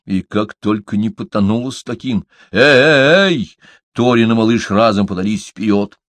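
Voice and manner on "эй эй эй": loud high alarmed calls; calling out. A narrator's reading. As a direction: shout to stop them. Calling out to stop fight.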